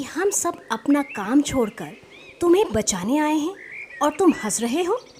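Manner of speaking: acted reproach with a touch of anger; mild anger. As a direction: scold the prankster in mild disbelief. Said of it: "गुस्से से लाल पीला होने लगा".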